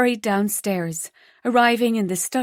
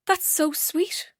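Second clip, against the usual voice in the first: tearful; 8 semitones higher, 4 dB quieter, slower than usual. A narrator's reading. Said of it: "tears welling up in her eyes".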